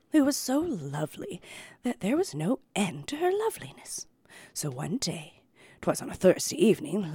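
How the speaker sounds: hushed storytelling voice; story narration. Acted. Reads fairy tale aloud.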